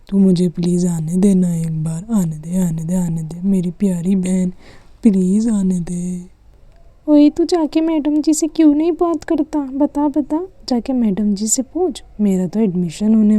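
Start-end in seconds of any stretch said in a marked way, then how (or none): 0.1-6.4 begging little brother. Acted. Brother begs sister. 7.1-12.0 taunting sister. Acted.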